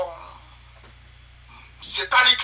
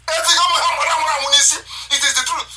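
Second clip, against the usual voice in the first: very slow, higher, laughing; laughing, drawn out; 7 semitones higher, much slower than usual. Real, not acted. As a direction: stretch it out while laughing.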